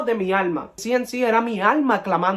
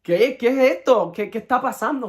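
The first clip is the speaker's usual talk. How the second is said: acting out baffled questions, pitched up; higher, incredulous retold reaction; retold bewilderment; 4 semitones higher, 3 dB louder than usual. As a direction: blurt it out, confused and higher. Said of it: "yo me quedo como que".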